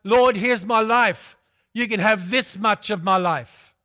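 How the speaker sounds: grudging offer, stressing "this much"; a prayer that keeps something back; holding-back prayer. Retold or imitated. Mock half-hearted prayer.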